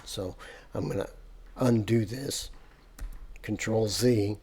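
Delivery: hiccuping mid-sentence; hiccups. Real, not acted. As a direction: talk through the hiccups. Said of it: "I got the hiccups".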